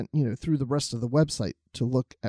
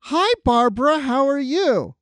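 high, friendly caller voice; mock high caller greeting; callers mistaking him for mom; 9 semitones higher, slower than usual. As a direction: pitch way up as if greeting the mother. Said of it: "they would always say".

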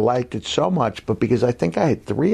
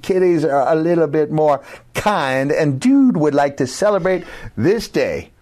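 higher-pitched groovy hippie hipster persona; Dude Love; 3 semitones higher than usual. Acted. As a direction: ham it up as a hip, earnest cool cat. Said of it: "So the dude is gonna do this".

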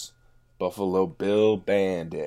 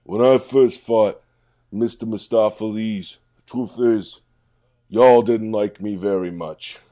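loud, rousing pep talk; rally the crowd like a fired-up coach; big inspirational address to the cats; inspirational speech; 3 semitones higher, 8 dB louder than usual. Acted. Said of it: "He's being inspirational".

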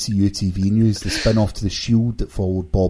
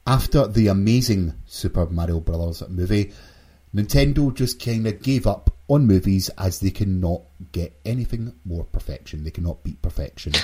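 mock reading. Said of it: "So let me rephrase".

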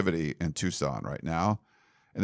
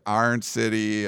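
Pittsburgh pronunciation, vowels squashed; Yinzer accent; slower than usual. Shown as a demonstration. Listing hometown sayings for co-host, Yinzer accent. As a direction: say it like a Pittsburgh local. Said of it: "so we would say".

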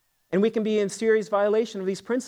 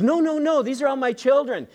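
lightly voiced mom, pitched higher; protesting mom; 7 semitones higher than usual. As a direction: imitate a mother's quick high-pitched protest. Mom correcting the farmer in story.

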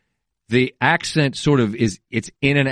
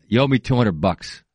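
lightly mimicked movie tough-guy accent; Hardy; 3 semitones lower than usual. Podcaster requoting a favourite film line, mock muddled accent. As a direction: do a mock hammered fighter accent. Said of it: "What accent is he doing in that".

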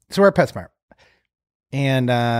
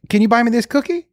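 a hint of a child's higher voice; daughter asking; 5 semitones higher than usual. Daughter wants a treat at PetSmart, light child voice. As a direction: lightly imitate a kid's request. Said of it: "She goes".

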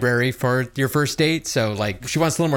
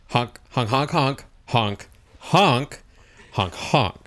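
goose honking; much slower than usual. Acted. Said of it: "she seemed to like that".

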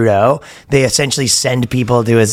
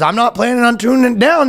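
higher-pitched mock Canadian; Canadian accent; 11 semitones higher than usual. Guy answers officers at his door, Canadian accent. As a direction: push back in a hammed-up Canadian accent. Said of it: "the most Canadian interaction".

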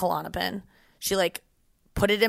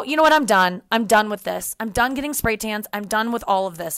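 mini meltdown; 3 semitones higher, 4 dB louder than usual. Retold or imitated. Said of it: "I kind of had a little mini meltdown".

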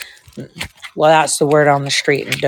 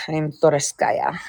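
slow, softer Russian accent; 5 dB quieter, slower than usual. Shown as a demonstration. Putting on the accent at a friend's request, Russian accent. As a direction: introduce yourself slowly with a Russian accent. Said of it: "Do your Russian accent with Toriski".

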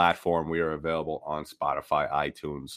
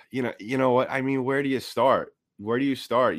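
exasperated; 6 semitones higher than usual. Real, not acted. Venting frustration at team's play.

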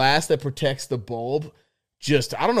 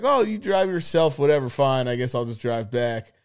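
imitating the friend. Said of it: "he was just like".

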